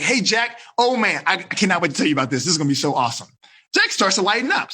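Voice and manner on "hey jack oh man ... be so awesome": excited opener. Shown as a demonstration. Upbeat opener making Jack lighten up. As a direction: gush with eagerness. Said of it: "But I'd be like".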